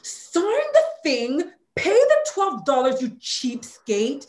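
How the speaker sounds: slow it down on sign the thing, then drop to scorn on cheapskate; exasperated at dad. Real, not acted.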